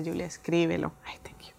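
a hushed, gentle reminder; quiet advice. Retold or imitated. Husband urging his wife to write it down, hushed. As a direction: whisper it as a loving nudge.

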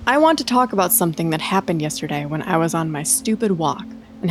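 brisk, low-key first-person storytelling; story read aloud. Acted. Host reads co-host an eerie forest tweet, story read aloud.

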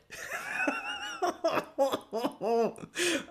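a real burst of high laughter. Real, not acted. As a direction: laugh high and long at yourself. Laughing about hiding from neighbor.

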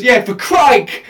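slow imitated Cockney confirmation; mock Cockney vowel on the name; Cockney accent. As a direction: repeat it slowly as a Cockney postman. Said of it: "he said it with his accent as Crike".

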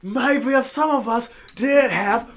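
high, slow, loud cartoon voice; SpongeBob meme quote. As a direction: drag it out like an outraged cartoon character. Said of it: "quote so many damn SpongeBob memes".

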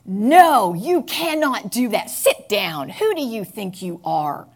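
shouted no with a jump in loudness; border patrol screaming. Acted. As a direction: bark the orders like a screaming guard. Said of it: "the Border Patrol starts screaming at me".

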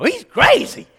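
high, loud mimicry of an indignant wife; outraged Kathy. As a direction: squeal it like a scandalized wife. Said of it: "That's the way she talks".

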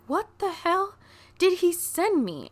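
high, startled what-the-hell; reacting to a heavy surprise box; high pitched disbelief; shocked.

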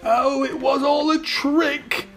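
high, slow cry of dismay. A narrator's reading. Prince realising he was tricked, high dismayed cry. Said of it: "cried the prince".

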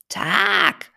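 laughing. Acted. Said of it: "lachte der Madenhacker nochmal".

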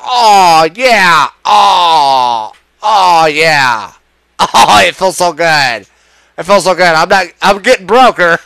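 drawn-out, moaning mock delight; mock bliss. Ranter mimicking gullible supporters, mock bliss. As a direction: put on exaggerated, blissed-out groans.

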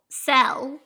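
cell drawled with a Southern vowel; Southern accent. Real, not acted. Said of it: "my Southern accent comes out on".

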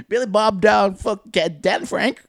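high, very slow mock alarm; panicked Klansman. Klansman calls for help against a burrito, high drawn-out hick panic. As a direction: call for backup like a dim hick. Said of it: "pretending you were Danny Frank Bob Jim".

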